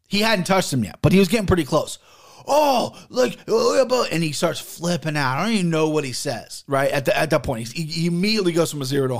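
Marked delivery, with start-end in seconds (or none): 2.5-4.1 imitating the guy's high whiny protest; a higher mocking take on his excuse. Mimicking the grimy guy protesting at the store, high and whiny.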